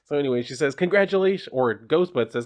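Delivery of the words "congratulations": perky mascot. Acted. Mascot voiced in comic reading.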